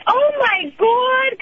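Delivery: high-pitched, long drawn-out wail; mother's way of talking. Retold or imitated. Daughter mimics mother reacting to the gorilla, high dramatic wail. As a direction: imitate a mother's dramatic, stretched-out high cry. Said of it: "'cause that's how she talks".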